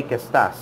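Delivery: "¿Qué estás?" said low, stress falling on "estás"; weight on the second word "estás", not "Qué"; wrong stress. Shown as a demonstration. Teacher showing students what not to say, stress on "estás". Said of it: "Don't, don't say".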